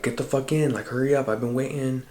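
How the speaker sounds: bossy, impatient imitation of a yell; retold yelling. Friend ordering storyteller into the car, half-yelled. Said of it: "yelling at me to get in the car".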